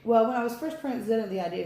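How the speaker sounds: words round a bite of pretzel; eating pretzels. Real, not acted. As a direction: talk with a mouthful of pretzels. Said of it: "I'm eating pretzels".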